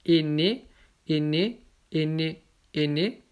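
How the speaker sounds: aîné with aî as closed é; same closed sound. Shown as a demonstration. Teacher reads spelling variants alike, closed é in aîné. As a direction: say each aîné identically as "é-né". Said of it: "ça se prononce de la même façon".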